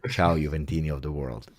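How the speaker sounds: deep voice. Retold or imitated. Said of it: "and the voice of Kurt".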